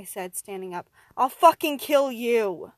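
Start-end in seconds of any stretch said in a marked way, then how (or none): 1.2-2.7 very loud, slow, furious yell; full rage. Acted. Survivor charging at his captor, enraged shout. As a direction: roar the threat, drawing it out. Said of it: "I ran at him full rage".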